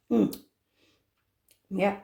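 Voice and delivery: savouring a taste off the spoon; tasting off spoon. Real, not acted. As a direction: mouth full, tasting. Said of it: "let me have a taste off the spoon".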